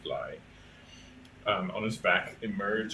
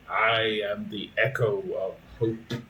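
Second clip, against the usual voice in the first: ghostly voice. Acted. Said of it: "a ghostly voice say".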